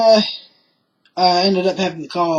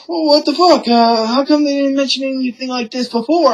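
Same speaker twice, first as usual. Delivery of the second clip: higher, louder imitation of indignant mother; mock protest; 7 semitones higher, 3 dB louder than usual. Retelling mother protesting her warrant, mock indignation. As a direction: complain in a pitched-up mimicking voice.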